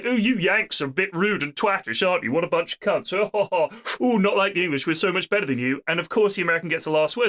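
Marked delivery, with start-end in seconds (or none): 0.0-5.8 lightly voiced posh snob with a mock haughty laugh; a hint of a pompous toff; haughty British officer. British officer insulting Yanks at dinner, lightly voiced haughty officer. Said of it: "A British officer is like".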